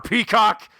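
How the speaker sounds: high-pitched shouted exclamation; mock scream. Retelling a favorite film line, mock scream. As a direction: scream it out in imitation. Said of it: "screams it for some reason".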